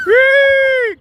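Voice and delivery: high gleeful whee; excited whee. Real, not acted. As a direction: cheer her on with delight. Child goes down slide.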